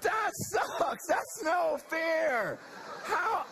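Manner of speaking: a high, shouted complaint of injustice; indignant outburst. Retold or imitated. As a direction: cry out that it isn't fair. Retelling his outraged reaction to scripture.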